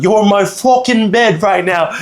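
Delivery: badly faked British tourist's demand; British accent. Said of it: "I can't do the British accent".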